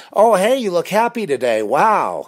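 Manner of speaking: high, loud gushing stranger; hammed-up high-pitched greeting; mock amazement. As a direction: imitate a stranger's over-the-top delighted surprise.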